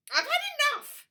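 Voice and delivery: high, loud furious snap; angry snap. Acted. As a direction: snap it out in a rage. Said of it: "snapped Princess Poppy".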